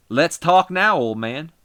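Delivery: "Let's talk now" shouted high, hitting "now"; wrestler promo. Acted. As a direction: call him out loudly, punch "now".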